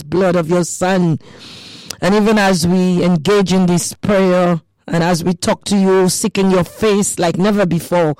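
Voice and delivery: earnest spoken prayer to God; fervent radio prayer. Acted. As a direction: pray aloud over the listeners, firm and steady. Radio prayer before devotion.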